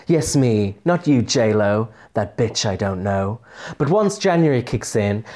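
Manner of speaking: lightly put-on, deliberate diva voice; a pop diva. Reading a letter asking fellow divas for help, pop-diva voice. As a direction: read it as a self-important pop diva, slipping slightly. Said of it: "I'll do a pop-diva impression".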